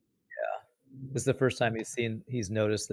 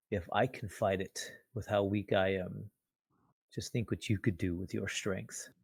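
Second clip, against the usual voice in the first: earnest appeal; 6 dB quieter than usual. Acted. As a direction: appeal to him quietly. Weak man earnestly appeals to Walter.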